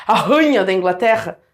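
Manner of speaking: deadpan RANHA, the i swallowed into the first syllable; wrong diphthong. Shown as a demonstration. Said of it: "eu teria que falar ranha".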